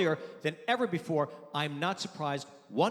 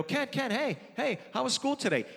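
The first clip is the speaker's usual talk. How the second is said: raised, lightly eager dad voice; calling to a child; 5 semitones higher than usual. Retold or imitated. Dad greets gaming son about school, lightly coaxing. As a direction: try to get the boy's attention.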